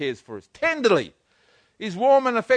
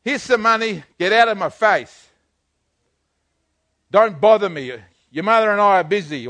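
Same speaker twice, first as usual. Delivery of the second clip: put-on a gruff parent brushing the kids off, louder; dismissive father; 5 dB louder than usual. Father to his children: a loud brush-off. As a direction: shoo the children away.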